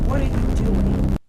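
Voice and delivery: slow, very loud demand; outraged yell. Retold or imitated. Guest confronting the mother calling animals, outraged yell. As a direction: yell it in disbelief, slowly.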